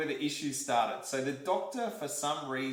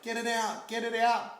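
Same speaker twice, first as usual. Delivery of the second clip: high, strained cry to get it out; pleading yell, pitched well up; retold scream; 7 semitones higher than usual. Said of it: "I was screaming, I was yelling".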